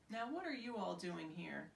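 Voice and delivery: reading a picture book to children, voicing each animal lightly; storybook reading. A narrator's reading. Teacher reading her own book to pupils, gently expressive. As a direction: read it like a teacher to a class.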